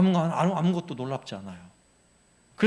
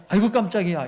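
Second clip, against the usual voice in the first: mock startle; 3 semitones higher, 4 dB louder than usual. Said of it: "이 정도가 아니에요".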